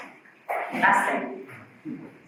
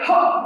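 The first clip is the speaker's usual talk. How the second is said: a hard, forceful ha cut off at the throat; extreme glottal ha; 8 dB louder than usual. Shown as a demonstration. Teacher demonstrating the extreme way, forceful ha. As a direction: slam the cords shut on a strong ha. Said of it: "we can do it in an extreme way".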